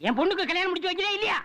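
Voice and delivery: high, fast bullying demand; threatening demand. Acted. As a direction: lean on him hard. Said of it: "என்னடா sound குடுக்குற?". (மிரட்டும் உயர்ந்த குரல்)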